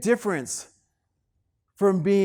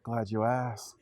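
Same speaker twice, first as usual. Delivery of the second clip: smooth eager answer; 6 semitones lower, 5 dB quieter, slower than usual. Retold or imitated. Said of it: "Got the same question".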